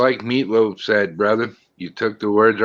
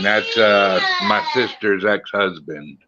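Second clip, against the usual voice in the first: choked up with real tears; fighting back a sob; voice breaking; 4 semitones lower than usual. Real, not acted. Talking about late dad.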